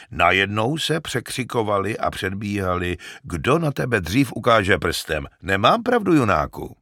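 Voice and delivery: lightly voiced shepherd, growing indignant; a hint of a shepherd scorning the lords; mild scorn in a simple herdsman's voice; old shepherd.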